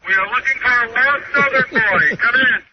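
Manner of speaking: megaphone call. Acted. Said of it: "talk back to you on a megaphone".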